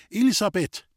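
high, loud call of her name. Acted. Roman calling for Lisbeth at the locked door.

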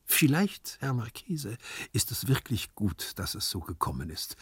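placid servant lightly voiced; composed, sententious explaining; calm philosophising. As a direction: carry on sermonising, unruffled. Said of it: "sprach ruhig weiter".

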